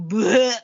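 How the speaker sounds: comic disgusted bleh noise; imitated bleh. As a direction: blurt out a mock "bleh". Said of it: "It's like".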